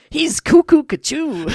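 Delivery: high, loud, slow surfer dude. Retold or imitated. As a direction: drawl it like a stoned beach surfer. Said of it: "it was more of a surfer voice".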